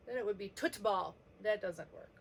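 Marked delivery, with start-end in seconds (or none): 0.5-1.1 FOOTBALL said with a T, tootball; wrong first sound. Shown as a demonstration. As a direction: swap the F for a T: tootball. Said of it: "it doesn't start with t".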